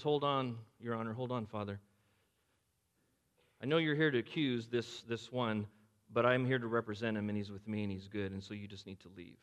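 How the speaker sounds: soft, tender reassurance; gentle Jesus. Acted. Jesus tells the accuser to leave.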